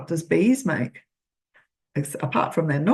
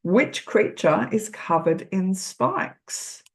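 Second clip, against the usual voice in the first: put-on slow read-aloud for a child; reading the question slowly; slower than usual. Shown as a demonstration. Reading a book question to a child, slowly. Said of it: "This one says".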